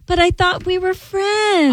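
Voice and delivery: put-on high, whiny drunk woman. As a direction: plead like a drunk to the cops. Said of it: "the girl starts going to the cops".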